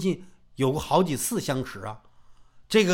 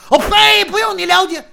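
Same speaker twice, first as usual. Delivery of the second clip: high, loud scornful spit; angry retort; 12 semitones higher, 13 dB louder than usual. Acted. Furious swordsman cutting off his taunter, high loud scorn. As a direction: spit the words back in contempt. Rival spits back in anger.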